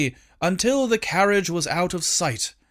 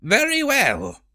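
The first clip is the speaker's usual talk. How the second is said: imperious queen; 8 semitones higher than usual. Acted. Queen dismisses.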